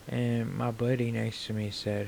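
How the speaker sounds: ordinary talk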